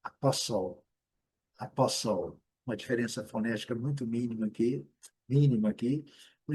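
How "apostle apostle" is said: apostle as a-POS-ol, no T; silent T. Shown as a demonstration. Teacher reminds learners about silent T, careful demo. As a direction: say apostle, skipping the T. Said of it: "letra T silenciosa".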